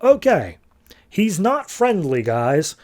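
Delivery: Martian Manhunter gets blasted and warns the team, startled; alarmed surprise. Retold or imitated. Hero hit by heat vision.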